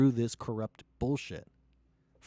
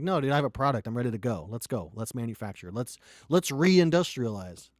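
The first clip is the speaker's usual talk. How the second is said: eager pitch to partners; 5 dB louder than usual. Retold or imitated. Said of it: "I'm like".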